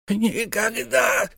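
very high, very slow cry; stubborn refusal. Acted. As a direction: drag out the refusal. Miser refuses twice.

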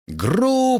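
high, stretched-out jeer; heckler's yell. A narrator's reading. Student heckler cutting off Nicole's speech, yelling. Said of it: "Эти вопли неслись со всех сторон".

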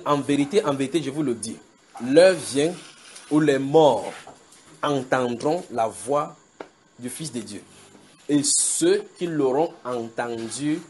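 slow, paused reading of scripture; solemn recitation. Acted. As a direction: lay out the verse phrase by phrase.

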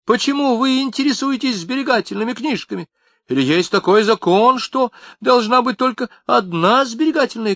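a fat tearful mother scolding the police; hammed-up indignant mother; shrill mother. A narrator's reading. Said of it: "крикнула".

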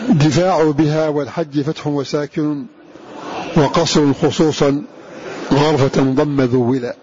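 slow chanted recitation of the verse; poem recitation. Acted. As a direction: intone the teaching poem slowly. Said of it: "ثم قال رحمه الله تعالى". (إنشاد بطيء لبيت الشاطبية)

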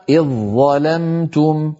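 slow إذ ظلمتم as iẓ-ẓalamtum; one long heavy ظ, no separate ذ in إذ; merged into za. Shown as a demonstration. Teacher giving the correct reading, doubled ẓ. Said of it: "إذن تنطق هذه الكلمة".

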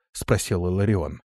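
usual speaking voice

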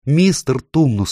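slow, rising distressed calls; upset cry. A narrator's reading. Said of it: "страшно расстроившись, воскликнула Люси".

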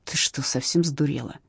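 soft hissing rebuke; the man hisses at the woman as the cop approaches; hissed. A narrator's reading. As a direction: hiss it low so the cop won't hear. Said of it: "прошипел мужчина".

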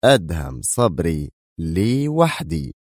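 slow, weighty possessive claim; menacing. Acted. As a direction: draw each word out with menace. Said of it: "انعقد حاجباه على نحو مخيف وهو يجيب". (بنبرة مخيفة متمهلة)

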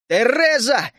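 loud, high desperate yell; screaming. A narrator's reading. Narrator yelling to stop Тереза, screaming. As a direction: holler the name. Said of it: "завопил я так, что заболело горло".

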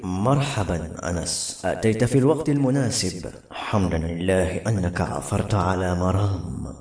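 deep, slow, measured bird elder; the Grey falcon. A narrator's reading. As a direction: greet him in a low, drawn-out character voice. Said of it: "قال الرمادي".

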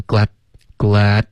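"glad" with the D swallowed on a bitten tongue tip; slow glad, ending unreleased; tongue-tip stop. Shown as a demonstration. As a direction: end glad in a clean silent stop. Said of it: "咬舌尖".

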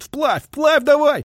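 very high, slow drawn-out yell; sergeant's yell. A narrator's reading. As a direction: bellow at the men in the river. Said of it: "Сержант кричит".

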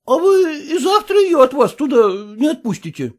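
put-on high, pleading, indignant voice of a fussy young husband; whining son-in-law. Son-in-law protesting to his father-in-law, high whining indignation. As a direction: squeal your outrage up high.

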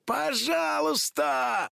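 a shrill drawn-out plea-yell. Acted. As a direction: scream the word out at him. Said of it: "завопила Хлоя".

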